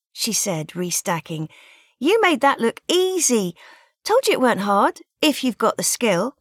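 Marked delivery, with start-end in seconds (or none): 2.0-6.4 higher, louder delighted praise; excited praise. Acted. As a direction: gush over his throw. Cheering the winner.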